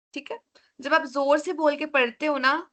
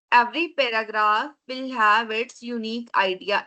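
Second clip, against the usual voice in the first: slow dictation; much slower than usual. Shown as a demonstration. Teacher dictates key rule slowly.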